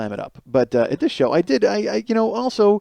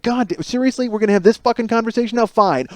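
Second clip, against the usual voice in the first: exasperated groan; 8 semitones higher than usual. Retold or imitated. Exasperated before punching wall.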